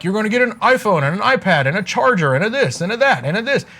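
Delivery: rattled off fast like a hyped shopper; mock gushing list. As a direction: rush the list in a light mock tone. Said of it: "I'm not like".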